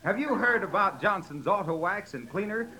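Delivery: a hint of a radio pitchman. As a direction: sell the wax like an announcer. Announcer barges in with ad.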